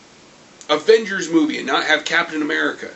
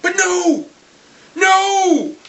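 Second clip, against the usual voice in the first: higher, louder, slow frustrated yell; angry outburst; 7 semitones higher, 4 dB louder, much slower than usual. Real, not acted. Ranting to viewers about the movie, angry yell. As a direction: vent real frustration.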